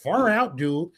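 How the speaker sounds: teasing his cohost with a hammed-up surfer greeting, laughing; mock surfer dude. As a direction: play a laid-back surfer dude, half laughing. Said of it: "Now you sound Hawaiian".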